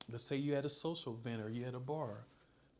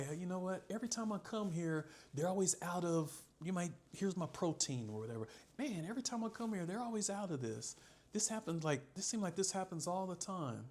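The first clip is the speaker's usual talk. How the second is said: mock talking to yourself; 4 semitones higher than usual. Shown as a demonstration. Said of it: "Now you're talking to yourself".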